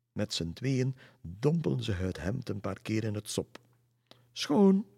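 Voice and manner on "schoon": high, loud cry; calling out. A narrator's reading. Two ladies announce the clean shirt, calling out. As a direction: sing out one triumphant word. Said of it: "riepen ze in koor".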